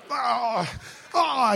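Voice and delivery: mock uneasy "ah"; uncomfortable groan. Imitating uncomfortable crowd at the prayer, mock groan. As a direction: groan like a squirming listener, mimicking. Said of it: "la gente incómoda".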